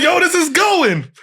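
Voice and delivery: high, slow, half-shouted retold excitement; hyped amazement. Realizing his video is taking off, high hyped shout. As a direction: stretch it out, thrilled and astonished.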